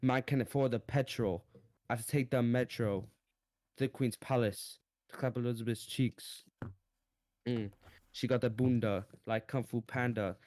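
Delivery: mock British rapper spitting bars; hammed-up London rap flow; london roadman accent. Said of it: "I'm gonna spit some bars".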